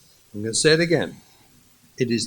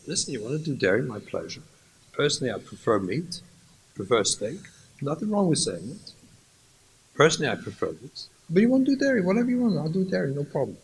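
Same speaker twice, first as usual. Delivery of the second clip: much softer, easygoing concession; gentle husband; 6 dB quieter, much faster than usual. Acted. Husband softly telling his wife dairy is fine, much softer. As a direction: give way kindly.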